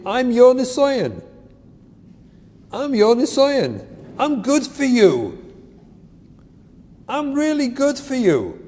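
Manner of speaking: imitating the kid. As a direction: play the kid lecturing the parent. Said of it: "That's what they should really say".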